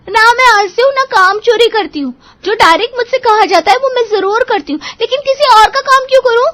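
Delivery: high, loud protesting voice; indignant defence. Acted. Seema defending herself to mother-in-law, high indignant protest. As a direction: stand your ground, voice climbing.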